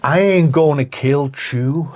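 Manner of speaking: slow, drawn-out gangster with a mock accent; Al Pacino impression. Co-host as gangster sparing a man, Pacino impression. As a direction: draw it out, "Chew" for "you". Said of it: "And Al Pacino's like".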